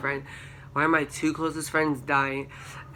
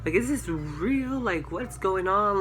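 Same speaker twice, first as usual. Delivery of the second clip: shrieked very high, then slower and still high; retold scared scream; 6 semitones higher than usual. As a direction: squeal it in shock like you're reliving the moment. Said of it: "we, like, all scream".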